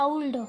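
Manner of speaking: ओल्ड as a-uld, gliding from a to u; careful ओल्ड, open a sliding to oo; correct pronunciation demo. Shown as a demonstration. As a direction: repeat ओल्ड with a clear au diphthong. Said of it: "क्या बोलते हैं".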